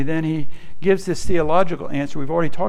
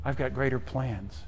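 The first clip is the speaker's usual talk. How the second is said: softer, gentle voicing of God's promise; God speaking softly; 3 semitones lower, 11 dB quieter than usual. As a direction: lower the volume as if God speaks close. God's voice quoted in sermon.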